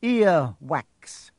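high, loud strangled lament; choked dismay. A narrator's reading. Headmaster tastes a nasty bean, choked dismay. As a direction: cry out as if choking on it. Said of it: "Then he choked and said".

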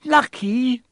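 high loud outraged shriek; girl shrieking at two boys. Acted. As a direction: shriek the word Lucky in disbelief. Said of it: "shrieked Hermione".

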